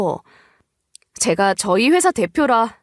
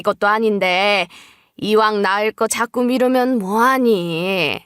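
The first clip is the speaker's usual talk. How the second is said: mother-in-law urging; 2 semitones lower than usual. Acted. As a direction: nudge your daughter-in-law gently but firmly toward a baby. 시어머니가 임신을 재촉함. (살짝 낮춘 시어머니 목소리로 타이르듯)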